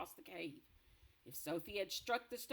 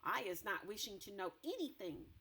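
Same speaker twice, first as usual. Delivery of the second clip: dignified. Acted. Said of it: "very dignified".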